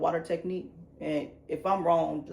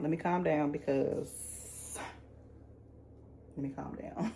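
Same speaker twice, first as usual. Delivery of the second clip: calming down; 2 semitones lower, 7 dB quieter, slower than usual. Real, not acted.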